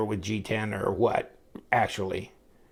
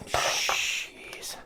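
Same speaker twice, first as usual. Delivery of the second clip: whispered jeez; 9 dB quieter than usual. Real, not acted. Muttered to himself.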